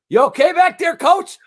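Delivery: playfully concerned question to the coach; mock innocent check-in. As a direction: play innocent after trashing him. Checking on coach after roasting him.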